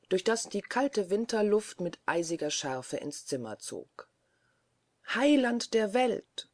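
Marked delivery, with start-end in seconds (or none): 5.1-6.5 slow, louder horrified cry; shocked old lady crying out; cry of alarm. A narrator's reading. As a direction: call out to heaven, dragging the words. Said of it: "schrie das Stiftsfräulein".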